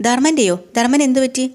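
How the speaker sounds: high, startled question about Dharman; a wife caught off guard, voice jumping up; lightly voiced surprised wife. Wife surprised at brother's name.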